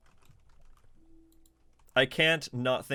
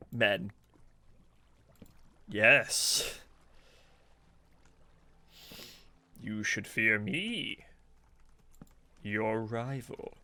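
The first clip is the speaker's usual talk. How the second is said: slow, lightly put-on Yoda croak; 3 semitones lower, much slower than usual. To chat while gaming, slow hint of Yoda. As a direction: talk like a little old Jedi master, unhurried. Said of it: "Much like Yoda, you sound".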